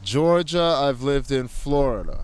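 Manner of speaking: muffled speech behind a mask; through a face mask. Real, not acted. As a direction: talk through a cloth mask. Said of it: "Please excuse the mask muffling".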